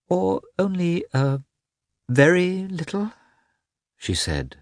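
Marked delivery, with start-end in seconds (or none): 0.1-3.1 coy high drawl on very; high-pitched drawl. Acted. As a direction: drawl very up in a much higher voice. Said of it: "drawling out the word very in a high-pitched voice".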